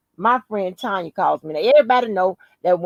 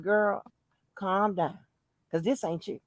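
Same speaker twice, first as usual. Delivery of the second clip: talking herself down; 3 semitones lower, 9 dB quieter than usual. Retold or imitated. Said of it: "I was talking to myself".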